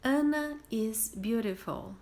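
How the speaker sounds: slow, clear model sentence; model reading. Shown as a demonstration. Teacher reading the example slowly for students. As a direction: read it slowly for the class to copy. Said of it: "Siga o exemplo".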